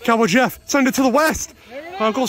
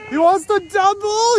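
higher, rising call; more excited; 6 semitones higher than usual. Real, not acted. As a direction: build the excitement. Runner stretching hit.

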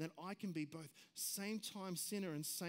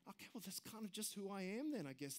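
softer, quiet resigned shrug; 5 dB quieter, faster than usual. Retold or imitated. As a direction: let it trail off, giving up. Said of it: "comfortable with our sin and go".

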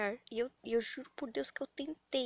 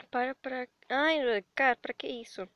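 loud plea to stop; 7 dB louder than usual. Real, not acted. Pleading with hostile commenters.

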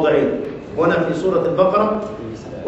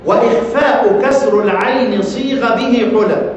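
measured chanted recitation of a poem line; verse recitation; 2 semitones higher, slower than usual. Shown as a demonstration. Teacher reciting the verse to his students in a measured chant. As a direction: intone the verse slowly and evenly.

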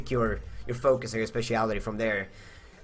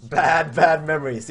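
louder, pressing the words out; emphatic repeat; 3 semitones higher, 5 dB louder than usual. Real, not acted. Recalling the horse ordeal to viewers, emphatic and louder. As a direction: hammer home the bad memories.

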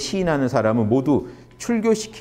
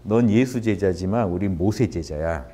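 smug line drawing; 4 semitones lower than usual. Retold or imitated. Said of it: "이런 말도 재밌죠".

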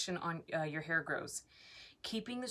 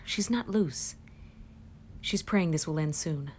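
louder, hushed play-by-play about herself; mock documentary narrator; 4 dB louder than usual. Vlogger narrating her own fear to viewers.

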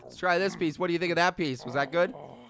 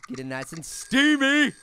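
odd silly delivery. Pretend. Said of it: "I don't know why I said it like that".

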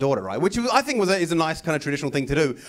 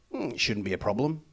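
gruff farmer reply; 6 semitones lower, 7 dB quieter than usual. Retold or imitated.

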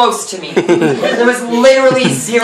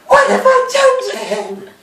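very high, hammed-up wail; mock anguished wail. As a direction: wail it in exaggerated remorse. Miss Havisham's remorse, escalated take.

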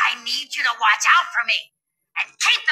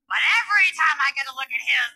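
swooning lunch lady. Acted. Lunch lady swooning over teacher.

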